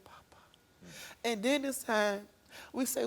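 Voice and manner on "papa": barely audible whisper; scared child whispering a name. Retold or imitated. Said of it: "She whispered his name".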